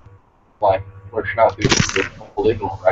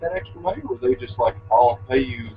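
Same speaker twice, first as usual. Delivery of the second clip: muffled microphone; 3 dB quieter than usual. Real, not acted. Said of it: "sound like you're in a tunnel".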